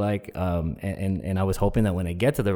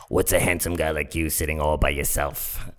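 low come-on voice; imitating a forward barfly's low voice; seductive woman; 5 semitones lower, 3 dB quieter than usual. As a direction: purr it low, flirting with a stranger. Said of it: "just that kind of voice".

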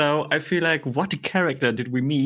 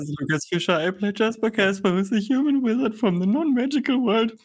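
second try at Scottish; 5 semitones higher than usual. Retold or imitated. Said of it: "Okay, let me do it".

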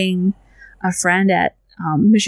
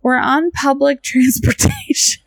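exasperated; 7 semitones higher than usual. Retold or imitated. Retold exasperated reply to groper's friend.

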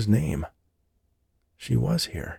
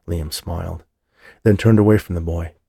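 ordinary delivery, nothing marked

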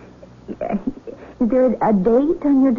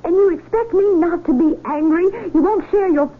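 higher-pitched, incredulous protest; indignant questions rising in pitch; hurt indignation; 4 semitones higher than usual. Acted. Fiancée challenges the man calling off their wedding, hurt and indignant. Jilted fiancée reacts, told not be angry.

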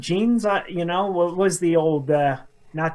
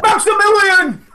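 grand announcement; 7 dB louder than usual. Pretend. Cohost playfully announcing a user's full name, loud and high. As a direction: trumpet the full name like a herald.

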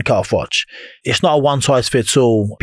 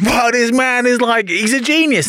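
amazed thought; 11 semitones higher, slower than usual. Retold or imitated. Retold awe at coach.

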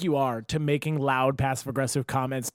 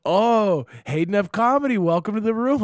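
mock host welcome; 5 semitones higher, 3 dB louder than usual. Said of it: "if they're like".

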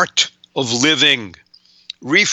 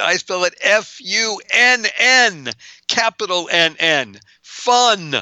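"I spell it F U N N" slow, high, letters stressed; spelled out with emphasis; 5 semitones higher, slower than usual. Shown as a demonstration. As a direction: spell out the letters slowly, then a high "Fun". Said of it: "Not how I spell it".

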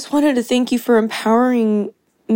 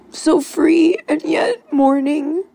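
crying; 5 semitones higher, slower than usual. Real, not acted. Caller thanking the host, crying as she speaks. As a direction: voice breaking into tears while mourning. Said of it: "I'm crying right now".

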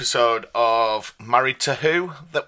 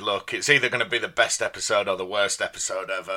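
croaky hungover voice; rough, croaky morning-after voice; 4 semitones lower, 5 dB quieter than usual. Real, not acted. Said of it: "I'm pretty croaky".

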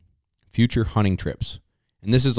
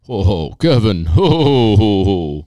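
a light jolly ho-ho-ho, a bit louder; a mild jolly Santa laugh; 6 dB louder than usual. Pretend. Host playing Santa for his co-host, lightly jolly.

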